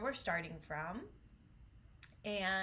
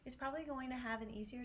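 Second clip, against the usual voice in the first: lighter higher voice; 4 semitones higher, 4 dB quieter, faster than usual. Shown as a demonstration. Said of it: "speaks more like this".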